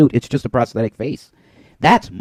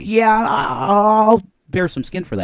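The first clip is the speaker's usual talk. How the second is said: loud, high, drawn-out yeah; hammed-up enthusiasm, high and loud; mock eager reply; 8 semitones higher, 4 dB louder than usual. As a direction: play an over-eager volunteer, pitched up. Voicing his imagined eager reply.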